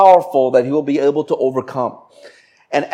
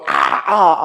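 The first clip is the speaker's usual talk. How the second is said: mock shrieking cries; mimicked wail of a woman shrieking; imitated shriek; 2 semitones higher than usual. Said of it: "as she was going".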